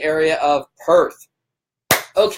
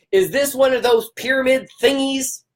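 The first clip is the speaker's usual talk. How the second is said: mildly mocking, higher-pitched cranky question; 4 semitones higher than usual. Sceptic questioning a network marketer, mock cranky. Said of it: "have to say it in that voice".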